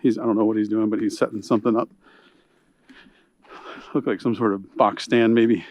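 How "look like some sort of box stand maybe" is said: out of breath. Real, not acted. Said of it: "Sorry if I'm huffing and puffing".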